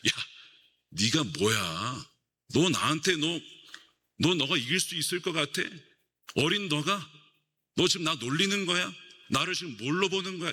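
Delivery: a lightly voiced sneering giant; Goliath's taunt. Goliath mocking young David, lightly voiced scornful taunt. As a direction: scoff at the boy, half-acted. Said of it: "골리앗이 막 조롱을 합니다".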